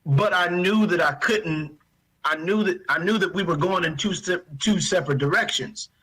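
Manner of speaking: fighting tears, pitch pushed up; holding back tears. Real, not acted. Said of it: "I'm trying not to cry".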